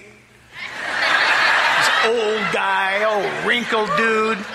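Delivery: slow words through laughter; laughing. Real, not acted. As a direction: laugh as you describe him. Laughing while describing father.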